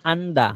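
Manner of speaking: "আন্দা" as AN-daa, open final vowel; silent final R. Shown as a demonstration. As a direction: say "আন্দা" with no R at the end. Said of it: "নিচের উচ্চারণ হবে".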